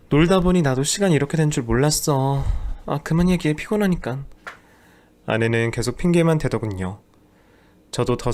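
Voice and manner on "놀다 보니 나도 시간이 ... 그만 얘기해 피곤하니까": higher, tired brush-off; dismissive wife. Acted. Wife cuts off husband's complaints, weary and dismissive. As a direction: wave him away, tired.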